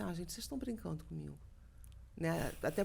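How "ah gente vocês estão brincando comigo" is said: soft, fast muttered disbelief; disbelieving aside. Retold or imitated. Seeing it is Meryl, she murmurs soft, fast disbelief. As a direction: say it under your breath, quick. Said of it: "Aí eu falei assim".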